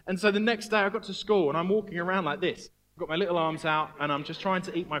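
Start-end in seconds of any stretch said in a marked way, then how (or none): 0.0-2.7 laughing. Real, not acted. Laughing at childhood memory.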